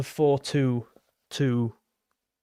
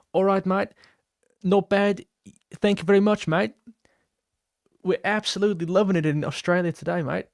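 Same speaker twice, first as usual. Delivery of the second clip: hammed-up Australian accent, pitched higher; bad Australian accent; 4 semitones higher than usual. Streamer thanking a fan from Sydney, mock Australian accent. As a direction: put on a badly faked Australian accent. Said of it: "Oh, that was bad as well".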